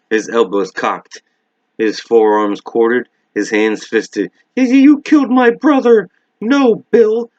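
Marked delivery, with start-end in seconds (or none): 4.6-6.1 high, loud cry of rage; furious shout. Acted. Bill confronts the spider. 6.4-7.3 shriek. Acted. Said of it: "Beverly shrieked".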